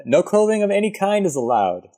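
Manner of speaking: high-pitched mock official; mock rule announcement. Co-host reading out a German bath's rule, high mock announcement.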